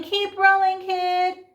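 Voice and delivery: high, loud encouraging yell; cheerful shout down the hill. Acted. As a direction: shout it as he pushes him downhill.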